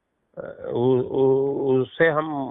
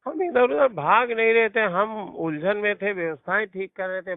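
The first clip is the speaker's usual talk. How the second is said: higher-pitched, insistent denial; defensive protest; 6 semitones higher than usual. Real, not acted. Protesting an accusation of running away. (ऊँची आवाज़ में सफ़ाई देते हुए विरोध)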